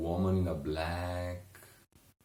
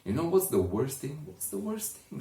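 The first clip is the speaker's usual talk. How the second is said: a touch of angry exasperation; getting angry; 8 semitones higher, faster than usual. Acted. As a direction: build the frustration, voice climbing. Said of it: "Richard started getting a little bit angry".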